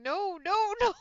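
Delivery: playful imitation of a despairing trainer; trainer saying no. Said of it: "My poor trainer standing there going".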